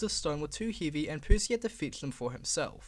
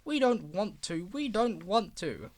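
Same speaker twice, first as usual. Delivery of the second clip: grumbling; 3 semitones higher than usual. Acted. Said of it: "they grumbled".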